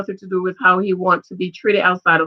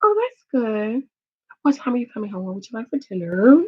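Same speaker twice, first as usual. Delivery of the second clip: higher, softer, sugary honey tone; sweet wife voice; 3 semitones higher, 3 dB quieter than usual. Retold or imitated. Wife sweetly greeting husband after his day, soft and higher. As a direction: coo at him like the perfect sweet wife. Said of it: "I'm like".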